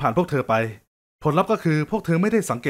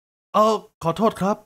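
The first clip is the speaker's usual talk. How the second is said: higher, slower, a bit louder fake-blind apology; mock loud apology; 6 semitones higher, slower than usual. Man faking blindness apologises loudly into the wrong direction. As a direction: call out loudly so she thinks you can't see. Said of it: "แล้วพูดเสียงดัง".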